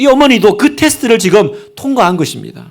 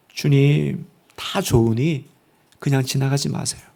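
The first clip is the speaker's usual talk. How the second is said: soft, low acted supplication; hushed pleading prayer; 4 semitones lower, 7 dB quieter than usual. Believer begging the Lord not to pass by, hushed pleading. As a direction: plead softly, clinging on.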